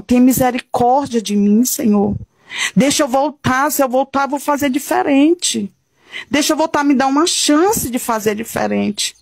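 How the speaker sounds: retold pleading of the damned. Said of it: "essas pessoas gritavam".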